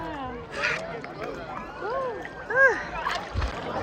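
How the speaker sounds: long, soft sigh; relieved sigh. Real, not acted. Vlogger cooling sore feet in the water, relieved sighing. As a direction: let out a long, quiet sigh.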